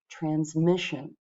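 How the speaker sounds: "transmission" said slowly, with MIS stressed; slow down and lean on MIS in "transmission"; stress on middle syllable. Shown as a demonstration. Teacher confirming the quiz answer, slow "transmission" with middle syllable stressed. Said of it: "It's the middle syllable that gets the stress".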